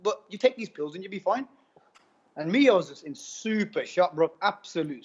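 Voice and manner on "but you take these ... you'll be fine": imitated dismissive nurse. Nurse reassuring a shocked patient about pills, imitated high-pitched breeziness. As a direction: brush off the worry, imitating a nurse.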